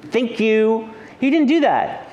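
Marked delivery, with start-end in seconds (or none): 0.1-0.9 mock-indignant, slightly raised pitch; a touch of aggrieved disbelief; exasperated complaint to God. Imprisoned Paul hypothetically blaming God, mildly exasperated. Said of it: "blamed God or wondered where God was".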